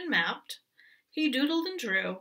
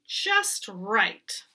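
whispered just right. Acted. Goat whispers satisfied.

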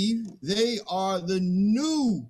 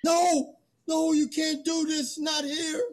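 much higher, frantic cries of no; high panicked protest; desperate plea; 12 semitones higher than usual. Acted. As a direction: beg them to stop, panicked. Man pleads as animals attacked.

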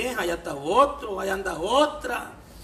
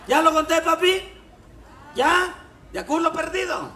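higher, louder coaxing voice; 7 semitones higher, 4 dB louder than usual. Acted. Voicing the girl in the joke.

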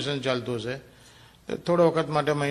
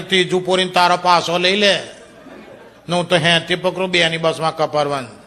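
loud, raised scolding; 4 semitones higher, 6 dB louder than usual. Acted. Husband scolds his wife, loud and high. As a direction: keep hammering her loudly.

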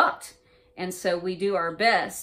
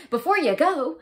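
laughing; 9 semitones higher, 8 dB louder than usual. Retold or imitated. Quoting spirit, laughing while telling.

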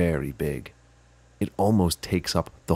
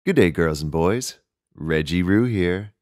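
louder, upbeat Aussie host greeting; cheery kids' host; 5 dB louder than usual. Acted. Kangaroo host greeting girls and boys, cheery and loud. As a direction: greet the kids like a bouncy TV host.

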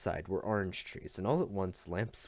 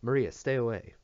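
raised, higher warning voice; urgent warning; 4 semitones higher, 5 dB louder than usual. A narrator's reading. Amelia keeps little Maria from the glass, urgent. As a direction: warn her off firmly and louder.

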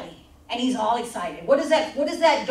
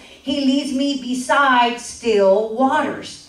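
slow, solemn, louder scripture read; 3 dB louder, much slower than usual. Acted. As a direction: read it out slowly and reverently.

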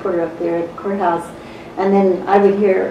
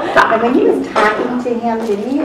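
imitated Minnesota questioner; Minnesota accent; 3 semitones higher than usual. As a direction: put on a mock Minnesota accent for a courtroom question. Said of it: "we talk kind of weird too".

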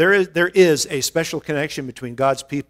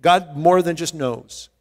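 "more" lifted and held, slowed phrase; slow emphatic "more" against "knows"; stress on more; 2 semitones higher, slower than usual. Shown as a demonstration. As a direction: press on "more" to correct them. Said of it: "I wanted you to know that".

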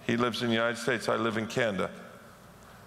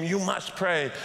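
higher, mock pastor's scream without real volume; retold preacher's scream; 5 semitones higher, slower than usual. Pastor screaming at his Sunday congregation, mock scream. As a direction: insist like a pastor, only half screaming. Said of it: "he would sweat and scream".

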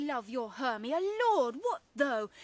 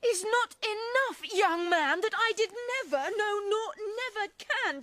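hurt indignation; 4 semitones higher than usual. Acted. Helena feels mocked by Lysander.

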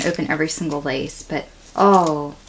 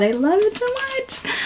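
delighted squeal. Real, not acted. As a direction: gush over the charm. Overjoyed opening a gift.

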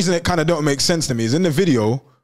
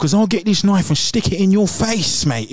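imitating a threatening man, a bit higher; mock aggressive man; 4 semitones higher than usual. Podcast host mocks the angry man from the video. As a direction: put on a menacing thug voice, mocking.

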